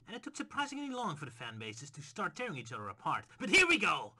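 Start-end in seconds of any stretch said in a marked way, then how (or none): 3.4-4.1 excited shout. Acted. Declaring war on fans.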